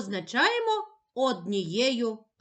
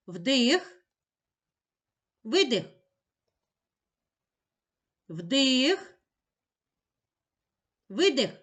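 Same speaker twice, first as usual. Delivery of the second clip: breathing cue; slower than usual. Shown as a demonstration. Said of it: "Почали".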